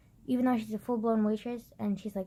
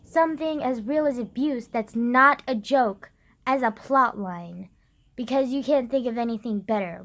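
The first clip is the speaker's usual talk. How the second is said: indignant rant; 5 dB louder than usual. Retold or imitated. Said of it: "I'm just like".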